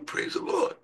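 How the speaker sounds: soft, breathy, voiceless praise the Lord; hushed congregational praise the Lord. Retold or imitated. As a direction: whisper it back like the congregation.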